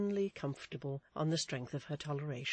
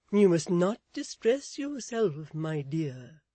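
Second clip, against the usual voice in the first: slow, drawn-out, soothing character voice; 3 semitones higher, 8 dB louder, slower than usual. A narrator's reading. Miss Tox comforts distressed Mrs Chick, soothing. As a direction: soothe firmly and slowly. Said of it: "said Miss Tox in a soothing voice".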